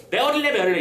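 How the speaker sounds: lightly imitated birdcall; a hint of a squawking bird; strange bird cry. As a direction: mimic the odd bird's cry, half in fun. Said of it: "이상한 소리를 지르는 거야".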